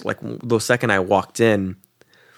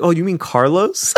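Carlos said through a rising laugh; 12 semitones higher, 5 dB louder than usual. Real, not acted. Telling the friend about the Carrot mix-up, laughing.

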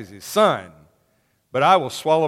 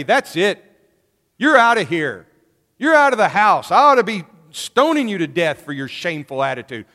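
louder stern father throwing his son out; a father's angry outburst, moderately raised; 2 semitones higher, 5 dB louder than usual. Acted. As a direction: scold him like a shamed father ordering him out. Father furious at shameful son.

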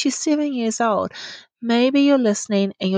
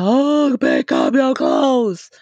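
slow, drawn-out giant's bellow; mock yell as a huge giant; booming giant; 4 semitones higher, 3 dB louder, slower than usual. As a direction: stretch each word like a looming giant. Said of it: "like I'm a giant".

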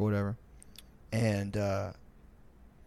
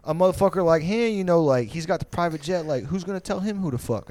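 imitating the rich guy; 6 semitones higher, 3 dB louder than usual.

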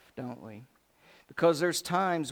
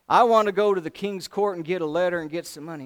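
stubborn Naaman; 2 semitones higher, 7 dB louder, faster than usual. Retold or imitated. Naaman voiced in argument.

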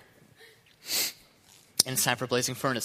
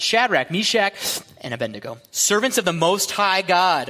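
calling out; 4 semitones higher, 4 dB louder than usual. Acted. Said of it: "and shouted".

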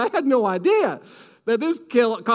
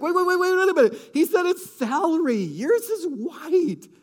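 urgent caution; 9 semitones higher than usual. Retold or imitated. Husband cautioning excited wife.

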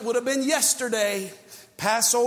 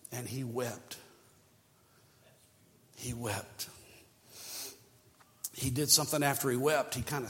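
much softer and lower, grieving; hushed sorrow; 8 semitones lower, 8 dB quieter than usual. Real, not acted. Preacher telling how Jesus wept, soft grieving hush. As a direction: let the sorrow sink in.

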